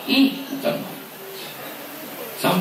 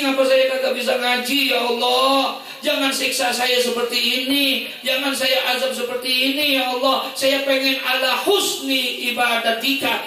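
higher, mock plea to God; mock pleading prayer; 5 semitones higher than usual. Preacher mimics a fifty-year-old begging God, higher mock pleading. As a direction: beg God for the strength to worship. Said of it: "Belum pernah kita minta yang kayak begitu".

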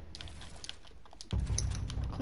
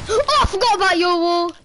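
surprised gasp; 4 semitones higher, 5 dB louder than usual. Real, not acted. Surprised by opponent's wall.

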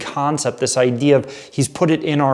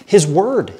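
incredulous; 5 semitones higher, slower than usual. Retold or imitated. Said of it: "And I'm like".

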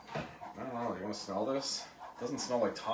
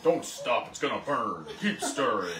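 louder, insistent mock-dad orders; Dad's repeated commands, lightly hammed up; imitating nagging dad; 4 dB louder than usual. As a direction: nag like a father over the stove. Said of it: "He's like".

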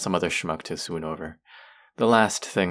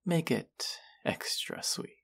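slow, high teasing whisper; a slow, mocking whisper; 10 semitones higher, 5 dB quieter, slower than usual. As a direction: whisper it slowly, savouring it. Whispered taunting request.

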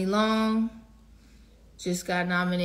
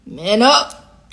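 louder and higher, pulling herself together; loud self-pep; 4 semitones higher, 11 dB louder than usual. Real, not acted. Artist stopping her own tears, loud self-command. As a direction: snap yourself out of it. Bracing herself not to cry.

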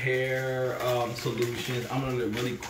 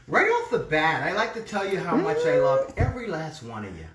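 a lightly voiced made-up lady, a touch higher; made-up letter-writer voice; 3 semitones higher than usual. Reading a viewer's letter aloud, in a lightly invented lady voice. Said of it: "I'm gonna make one up".

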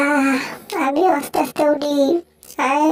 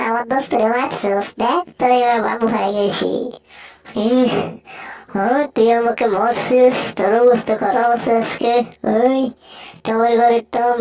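lower-pitched character scolding; threatening cartoon bully; 4 semitones lower than usual. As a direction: taunt and threaten a beaten rival in a low voice.

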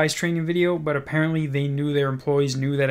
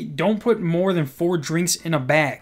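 slow quoted rule; slower than usual. Retold or imitated. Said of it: "they go on to say".

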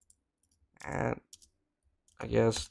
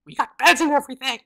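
teasing matchmaker; 4 semitones higher, 4 dB louder than usual. Acted. Teasing friend voice.

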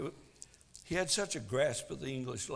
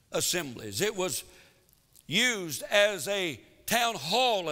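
emphatic preaching; 5 semitones higher, 5 dB louder than usual. Real, not acted. Preacher explaining the word ecclesia to the congregation, emphatic preaching. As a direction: punch the key words from the pulpit.

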